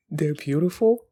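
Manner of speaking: mocking echo with a laugh and rising "beautiful"; incredulous. Real, not acted. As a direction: scoff at the line as if it makes no sense.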